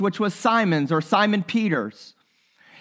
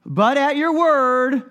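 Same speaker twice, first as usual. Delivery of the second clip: weary resigned voice; much slower than usual. Retold or imitated. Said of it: "he probably says it in that voice".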